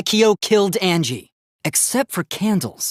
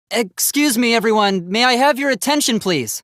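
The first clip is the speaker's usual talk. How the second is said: louder polite call; 5 semitones higher than usual. Acted. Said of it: "I just wanted everyone to listen".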